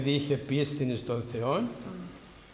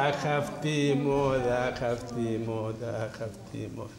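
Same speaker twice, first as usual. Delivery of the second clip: lament fading; 2 semitones lower than usual. Acted. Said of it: "lament over fashion".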